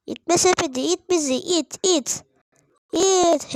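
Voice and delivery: rising eager cheering; excited urging. Real, not acted. Urging the cart to push.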